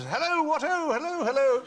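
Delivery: a high, hammy upper-class English hello; posh English accent. Retold or imitated. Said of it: "trapped between two accents".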